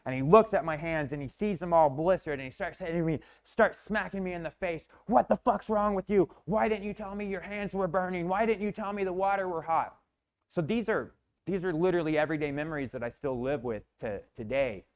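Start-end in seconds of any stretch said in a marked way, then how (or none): 5.1-10.0 higher, angry yelling dad; furious dad. Retold or imitated. Father yelling while smacking his son, angry higher shout. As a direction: rage at the burnt kid.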